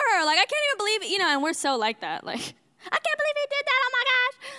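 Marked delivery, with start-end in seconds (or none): 2.4-4.5 put-on much higher, childlike gasp of outrage; upset seven-year-old. Seven-year-old daughter outraged at the man, squealed high. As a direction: squeal it like a shocked little girl. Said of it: "that's how I felt".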